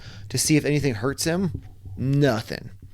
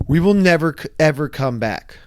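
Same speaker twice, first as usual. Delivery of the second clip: louder, firm insistence; emphatic vow; 2 semitones higher, 5 dB louder than usual. Retold or imitated. Wife swearing never to return, loud and firm. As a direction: hammer it home, we're never coming back.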